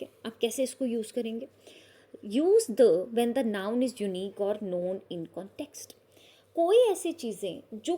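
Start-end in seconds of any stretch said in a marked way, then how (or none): 2.4-5.9 slow reading. Shown as a demonstration. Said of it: "teacher reads rule slowly".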